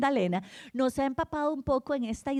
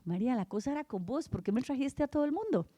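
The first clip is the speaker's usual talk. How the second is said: mild playful tease; 6 dB quieter, faster than usual. Acted. Jesus voiced, teasing María.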